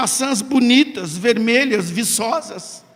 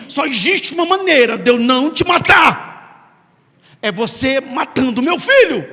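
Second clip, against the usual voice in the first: loud proclamation; 5 dB louder than usual. Acted. God's voice declares terms.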